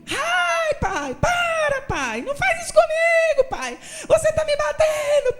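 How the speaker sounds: very high, loud mock wailing; fake crying boy. Boy faking screams for his mother while father pretends to punish him, high loud mock wail. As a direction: ham up a staged beating cry. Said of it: "Grita aí".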